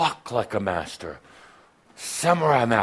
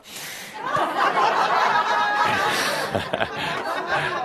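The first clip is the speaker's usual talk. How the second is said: high squealing laugh. Real, not acted. Big laugh at own joke.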